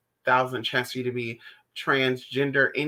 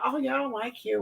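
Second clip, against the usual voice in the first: mock snippy retort; 9 semitones higher, 6 dB quieter than usual.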